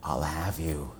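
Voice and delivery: low, soft menacing hiss; low hissing threat; turtle hiss. A narrator's reading. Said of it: "it hissed".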